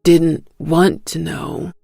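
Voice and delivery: slow, heavy admission; a hint of a remorseful father figure, slow; slow regretful man. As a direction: drag the words out in regret. Luke continues.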